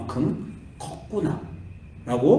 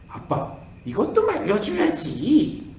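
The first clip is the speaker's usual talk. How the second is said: teasing; 6 semitones higher, slower than usual. Retold or imitated. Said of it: "저녁에는 웃으면서".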